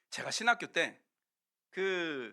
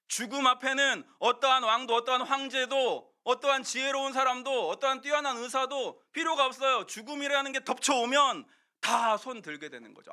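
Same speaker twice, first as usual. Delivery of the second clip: preaching; 7 semitones higher, 5 dB louder than usual. Acted. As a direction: raise the voice, high and louder, proclaiming. Preaching emphasis. (힘주어 설교하듯)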